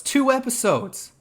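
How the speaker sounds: "Two" jumps high and slow; stress on two. Real, not acted. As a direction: lean hard on "Two", stretched high. Emphatic disbelief.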